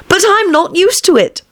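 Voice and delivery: high, plaintive Alice voice; piteous pleading. A narrator's reading. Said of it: "pleaded poor Alice in a piteous tone".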